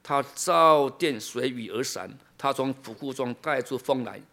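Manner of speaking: slow, measured Bible reading; deliberate pulpit reading, settling at the end; scripture reading. Acted. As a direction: read the verse out phrase by phrase. Reads scripture aloud.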